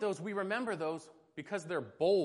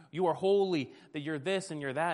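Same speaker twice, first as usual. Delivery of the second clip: louder praise; 6 dB louder than usual. Retold or imitated. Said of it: "incessant ramble".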